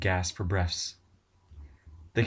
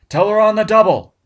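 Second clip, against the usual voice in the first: much louder and higher, full yell; shouted order, louder; 13 semitones higher, 15 dB louder than usual. Acted. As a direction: yell it at the top of the lungs. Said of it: "Barnes shouted".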